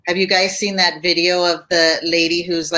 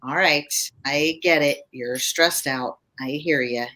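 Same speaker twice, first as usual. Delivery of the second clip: lower, soft and slow, soothing an upset person; low and slow calming; 3 semitones lower, 4 dB quieter than usual. Shown as a demonstration. Calming a stressed, angry person with low and slow. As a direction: settle them down gently and slowly. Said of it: "If you talk low and slow".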